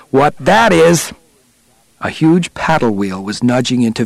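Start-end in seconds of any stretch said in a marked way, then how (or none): 0.1-1.1 slow, drawn-out cry, pitched up; chorused shout. A narrator's reading. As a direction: stretch it out in a contained shout. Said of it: "everyone in the control room shouted".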